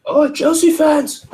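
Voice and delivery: high, slow put-on British voice; mock British accent. Shown as a demonstration. Still joking with a friend, a high, slow British accent. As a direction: drag out a hammy British twang. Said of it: "I can't do accents at all".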